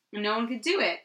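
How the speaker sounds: ordinary talk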